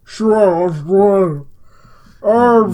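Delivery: words through a mouthful of spit; odd throaty voice. Real, not acted. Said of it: "I don't know why my voice right now is so".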